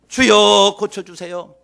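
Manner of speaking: loud call to the Lord, then easing; pleading cry. Acted. Jairus begging Jesus for his daughter, pleading cry. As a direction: cry out the first word in supplication. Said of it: "발 아래 엎드려서 간구합니다".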